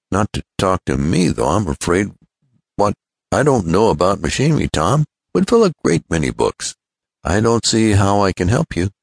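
lightly acted modest protest to a friend; Ned. Voices Ned doubting he helps.

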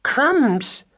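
high, loud squeaky country-mouse exclamation; loud surprised cry. Acted. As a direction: burst out like a startled farm-girl mouse. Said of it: "cried Madeline loudly".

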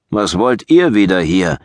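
sharp, loud demand; angry challenge. Acted. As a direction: bark it at intruders. Hostile tribe leader confronts returning Saxons.

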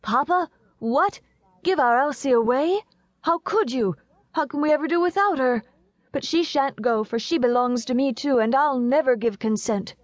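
put-on high-pitched child's protest; vehement young boy. A narrator's reading. Young Horace objecting to Papa giving Elsie away, vehement and high. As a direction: cry out in a small boy's indignant voice. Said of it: "cried out with vehemence".

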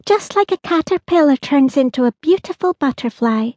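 put-on a child sharing her secret wish; lightly voiced girl, daydreaming; dreamy girl. Holly musing to the whale.

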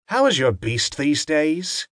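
sly, knowing question; arch. Acted. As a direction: ask it archly, teasing. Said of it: "she asked archly".

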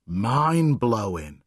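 slow breathless words; panting. Acted. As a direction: still winded after the game. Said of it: "Phoenix panted".

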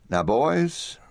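put-on calling the boys. Rancher calls his cowboys.

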